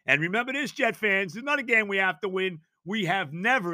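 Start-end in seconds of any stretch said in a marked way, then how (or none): 2.8-3.7 "never" leaned on, falling; stress on never. Real, not acted. Host telling Jets fans about the Eagles, stress on "never". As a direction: underline "never" with the voice. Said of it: "I underline the word never".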